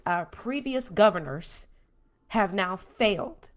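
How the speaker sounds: slow, deliberate emphasis; measured, emphatic declaration. Real, not acted. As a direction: spell it out slowly and emphatically. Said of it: "I'm gonna say this very emphatically".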